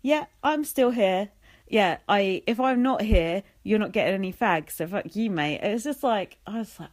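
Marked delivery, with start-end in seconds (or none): 0.0-5.6 a hint of Jason's cocky "Yeah, I'm still here"; smug Jason imitation. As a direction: lean on "I'm still here" like a sly threat. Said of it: "it's just the way he said it".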